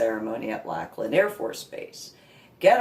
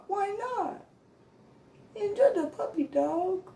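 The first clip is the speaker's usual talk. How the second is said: high, pleading whine; whiny baby voice. Retold or imitated. To the handler, high whining plea. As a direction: plead like a kid denied a treat.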